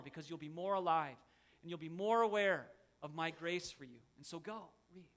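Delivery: tender God. Retold or imitated. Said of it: "He says".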